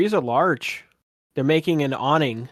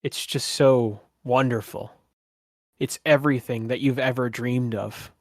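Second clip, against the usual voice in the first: game master's narration. Acted. Game master painting the vivid colors for a player, savoring narration. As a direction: describe the vision with wonder.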